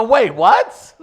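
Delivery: high, loud, through laughter; laughing disbelief. Real, not acted. Host laughing at hearing himself imitated. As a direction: crack up mid-question.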